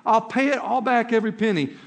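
a half-acted plea to the boss not to ruin you; pleading, blubbering. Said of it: "you start blubbering all over yourself".

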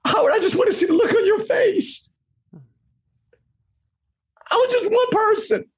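high, breaking voice; fighting back tears; tearful. Real, not acted. Guest speaking to mentor Howard through tears, choked.

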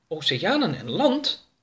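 little alien marvelling at a new planet; Oroka wondering aloud. Acted. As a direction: ask it with a rising, wondering lilt. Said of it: "zei Oroka".

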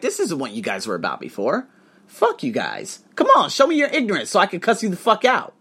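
rising into a high, loud furious challenge; angry rant. Retold or imitated. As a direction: dare them to show their ignorance. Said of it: "I was just so angry".

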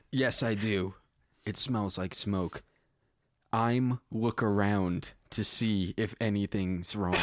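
measured read-aloud storytelling; story narration. A narrator's reading. Writer reading own space story to listeners, measured narration. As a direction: read it out plainly as prose.

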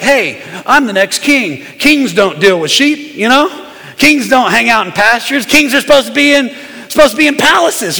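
mock entitled complaint; imagine a new king with a touch of attitude; lightly hammed-up indignation; mild attitude. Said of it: "to get an attitude".

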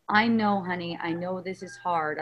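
soothing parent. Acted. Coach models embracing a son's feeling, soothing. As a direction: gently acknowledge the hurt, voice sinking. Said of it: "but an energy".

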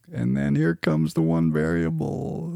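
high, slow, drawn-out build-up; mock suspense. Host announces his one variable, in mock suspense. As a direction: stretch it out high, teasing the big reveal.

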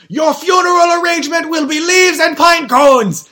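high, blaring monotone shout; loud-talking impression. Assistant baby announcing funeral plans, high unregulated shout. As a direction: blare out a threat with no volume control. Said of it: "why do you talk so loud".

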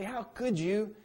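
a disappointed judge's jab; mock reproach. Imagined stern God reproaching a failure, in mock reproach. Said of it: "He doesn't look at us when we fail and say".

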